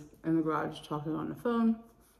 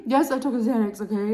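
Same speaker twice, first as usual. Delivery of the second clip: laughing, a bit louder; laughing defiance; 6 semitones higher, 7 dB louder than usual. Real, not acted. Owning up to the Xanax, laughing. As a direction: own it through a laugh.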